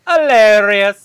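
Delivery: sarcastic. Real, not acted. Sarcastic loud echo.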